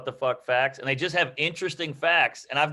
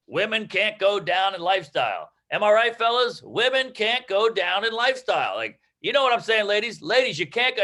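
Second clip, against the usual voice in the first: imitating Chris Rock; 5 semitones higher than usual. Lightly imitating Chris Rock hammering a line at the crowd. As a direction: preach the line to the crowd, overdoing it. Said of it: "He's like".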